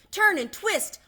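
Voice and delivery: very high, loud honking goose cries; shrieking goose. A narrator's reading. Goose urging Wilbur to escape, shrill frantic cries. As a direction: screech the orders like a frantic goose. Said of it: "honked the goose".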